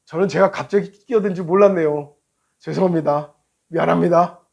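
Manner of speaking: mildly subdued, courteous apology; polite apology. Retold or imitated. Driver apologizing to the angry rider out of pity, polite. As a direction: apologize meekly to calm him down. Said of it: "내가 정중하게".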